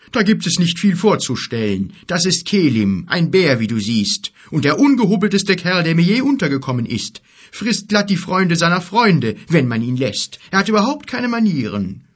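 loud, high-pitched complaining giant; grumpy giant. Acted. Giant introducing the rude bear, disgruntled. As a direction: grumble loudly about an ill-mannered companion. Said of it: "zuckte missmutig die Achseln".

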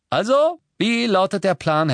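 high, loud opening question; eager. A narrator's reading. George asks Harry for the plan, eager. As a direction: ask keenly, pitched right up.

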